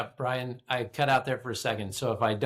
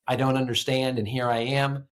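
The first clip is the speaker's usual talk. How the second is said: firm, louder declaration in Habakkuk's voice; emphatic statement; 4 dB louder than usual. Acted. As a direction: state it emphatically, with force behind it. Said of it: "We end it with an emphatic statement".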